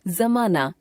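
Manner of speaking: जमाना begun with a soft z sound; जमाना as "zamaana", with nukta. Shown as a demonstration. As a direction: say the ज in जमाना as a buzzing z. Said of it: "नुक्ता लगे ज तथा फ में कोमलता".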